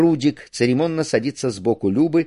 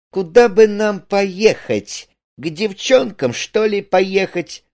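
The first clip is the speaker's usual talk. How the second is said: high, put-on casual musing; affected, drawn-out wondering in a high pitch; feigned voice; 9 semitones higher, 4 dB louder, slower than usual. A narrator's reading. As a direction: muse aloud for show, high and slow. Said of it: "притворным голосом".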